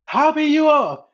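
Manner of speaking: laughing. Real, not acted. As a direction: giggle the words out. Laughing at the joke.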